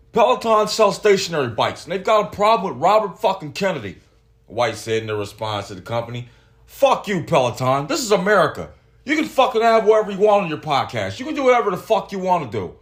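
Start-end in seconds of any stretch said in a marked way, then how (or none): 0.1-4.0 Dana White impression. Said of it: "That's my Dana White impression". 6.7-12.7 Dana White impression. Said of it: "That's my Dana White impression".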